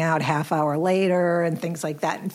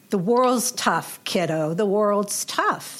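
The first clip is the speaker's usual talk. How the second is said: lightly voiced stern mother; slower than usual. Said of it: "my mother would scream at me".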